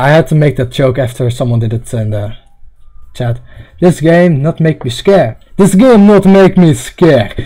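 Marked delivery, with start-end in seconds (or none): 3.8-7.3 put-on Russian accent. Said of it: "Russian accent".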